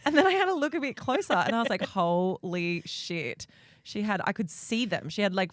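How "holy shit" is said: shocked. Retold or imitated. Horror at finding nits.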